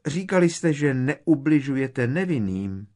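high, loud desperate protest; urgent high-pitched shout; crying out. A narrator's reading. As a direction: cry out in appeal. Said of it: "vykřikla Hermiona".

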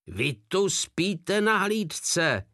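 high, slow furious roar; angry sergeant roaring at a sentry; roared accusation. A narrator's reading. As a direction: bellow it at the sleeping guard, voice cracking. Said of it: "zařval Blac".

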